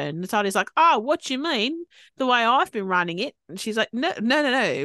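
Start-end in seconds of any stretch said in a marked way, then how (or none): 0.8-3.4 mock offended. Natalia retorting, offended. 3.9-4.8 mock firm dismissal. Toomey cutting her off.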